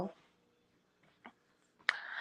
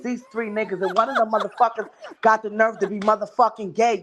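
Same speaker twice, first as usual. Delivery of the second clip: laughing rant; 3 semitones higher than usual. Retold or imitated. Quoting sister's rant, laughing.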